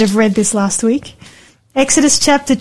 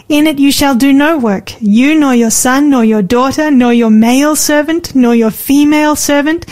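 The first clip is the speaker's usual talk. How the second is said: scripture reading. Acted. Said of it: "You've got a lovely reading voice".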